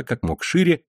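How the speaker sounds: usual speaking voice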